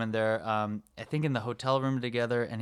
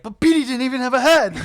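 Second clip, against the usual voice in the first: much higher and louder, a dopey, incredulous voice; Harry impression; 12 semitones higher, 9 dB louder than usual. Harry protesting to Lloyd, in a high dopey voice. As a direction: squeak it out like a dim buddy. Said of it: "Harry's like".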